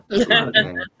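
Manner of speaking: high laughing repeat. Real, not acted. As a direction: laugh through the words.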